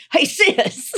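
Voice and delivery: high, loud mimicked hail; imitated calling out. Mimicking the jacked man hobbling down the street, imitated loud calling.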